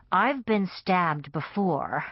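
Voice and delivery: slow sneering contempt. Acted. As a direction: sneer it down at him. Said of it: "I sneered".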